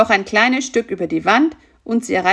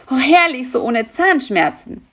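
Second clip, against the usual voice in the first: relieved; 5 semitones higher, 4 dB louder than usual. A narrator's reading. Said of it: "sagte er erleichtert".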